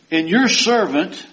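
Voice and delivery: high, loud, declaiming reading; preacher reading scripture aloud. Acted. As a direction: proclaim the verse to the congregation.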